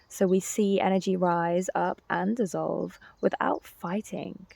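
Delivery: scripted teaching narration. Real, not acted. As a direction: deliver it as a prepared lecture, projected. Reads prepared teaching passage.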